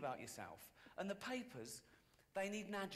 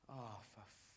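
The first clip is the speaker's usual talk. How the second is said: whispered curse; 6 semitones lower, 6 dB quieter, slower than usual. Retold or imitated. Whispered curse at his own mishap.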